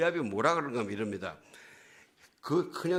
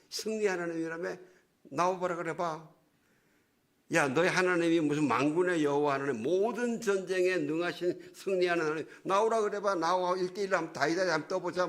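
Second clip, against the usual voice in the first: raised, goading mock taunt; Goliath; 5 semitones higher than usual. Goliath dares Israel's God to fight one-on-one, mock taunting. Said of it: "이러고 놀려대는 거예요".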